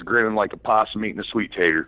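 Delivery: put-on a light Southern accent. Caller to radio hosts sharing a saying, Southern accent. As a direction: say it with a touch of Southern twang. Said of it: "that was my best Southern accent".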